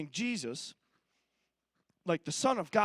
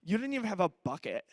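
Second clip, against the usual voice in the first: put-on sassy teenager; 4 semitones lower than usual. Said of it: "I see her looking at Jesus and be like".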